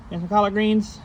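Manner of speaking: high-pitched offer to a pet; pet talk. Real, not acted. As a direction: sweet-talk an animal into eating. Offering greens to his animals.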